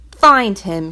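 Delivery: stern order. Acted. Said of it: "he ordered".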